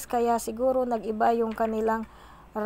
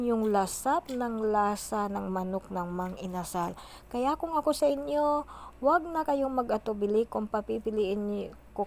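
eating between words; talking while chewing. Real, not acted. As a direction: mouth partly full of food. Seen 2: Pursed, working mouth while tearing chicken; licks fingers near start.

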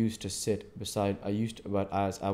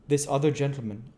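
lightly voiced simple blacksmith, a bit higher; a hint of easygoing Joe; 6 semitones higher, 4 dB louder than usual. A narrator's reading. Joe introduces Wopsle.

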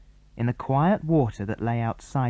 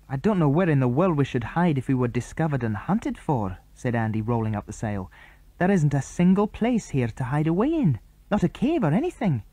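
put-on bright boyish chatter pitched up; boy character voices; 4 semitones higher than usual. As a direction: boys on the island plotting, pitched up. Andy worried.

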